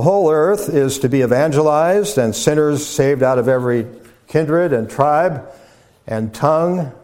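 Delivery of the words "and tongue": "tongue" set apart and pitched higher; stress on TONGUE. Real, not acted. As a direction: lift and lean on the word "tongue". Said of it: "emphasis on the word tongue".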